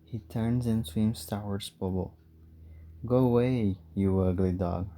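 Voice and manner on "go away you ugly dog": woman in the water shouts at the dog; angry shout. Acted. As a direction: drive the dog off with a yell. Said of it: "Roxanne shouts".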